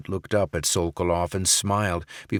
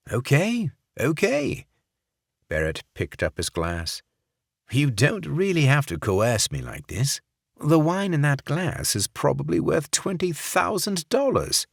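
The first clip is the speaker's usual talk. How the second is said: much higher fake English accent, nervous; 8 semitones higher than usual. Barrett giving in to Sokolov's pistol, fake English accent. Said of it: "in his fake English accent".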